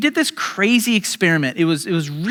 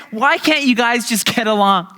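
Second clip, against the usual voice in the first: "Why can't you guys just get along?" higher, pleading, stretched out; exasperated parent; 4 semitones higher than usual. Retold or imitated. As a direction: beg them to get along, at your wits' end. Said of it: "parents in the room".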